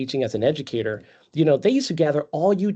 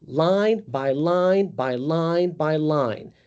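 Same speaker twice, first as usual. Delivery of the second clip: slow robotic recital; much slower than usual. Shown as a demonstration. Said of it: "what you sound like at that point".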